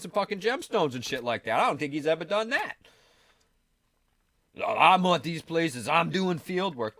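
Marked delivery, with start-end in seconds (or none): 4.6-6.9 mocking boaster. Mocking Billy Carson's boasts.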